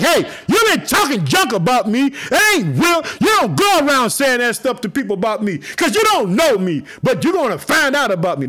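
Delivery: booming scolding as God; mock angry God. God voiced scolding Job's friends.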